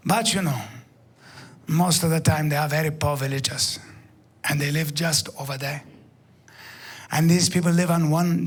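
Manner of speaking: a hint of a gentle Maasai guide lecturing; calm guide voice.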